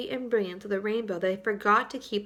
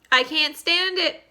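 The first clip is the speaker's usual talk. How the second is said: wailing; 6 semitones higher, 6 dB louder than usual. Acted. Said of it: "wailed the earthworm".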